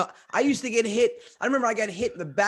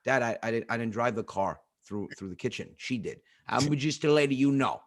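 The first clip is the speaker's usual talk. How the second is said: put-on meek kid; 6 semitones lower than usual. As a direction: mumble a scared excuse to dad. Kid pleading innocence.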